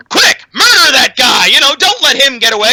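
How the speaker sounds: a hammed-up villain barking an order; mock shout of a scheming warlord; mock Gul'dan order. Retelling the film to a friend, mock villain shout. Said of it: "Gul'dan's like".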